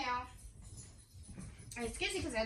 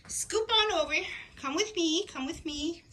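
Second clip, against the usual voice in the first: playful invite; 5 semitones higher, 6 dB louder than usual. Real, not acted. Inviting viewers along.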